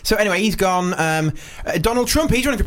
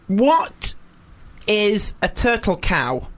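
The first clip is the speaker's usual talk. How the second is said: put-on four-year-old girl; 3 semitones higher, much slower than usual. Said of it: "she's about four or something".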